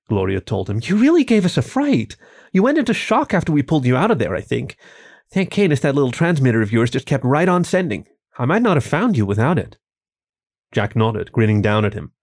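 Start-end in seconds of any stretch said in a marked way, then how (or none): 0.8-9.8 higher, worried woman's voice; concerned young woman. Acted. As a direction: voice her higher, relieved and fretful. Gloria voiced by narrator.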